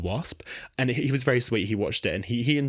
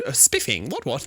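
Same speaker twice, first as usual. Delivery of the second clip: Donna's hammed-up attempt at posh accent; 4 semitones higher than usual. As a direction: badly imitate a posh accent. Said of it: "Donna tries to do it".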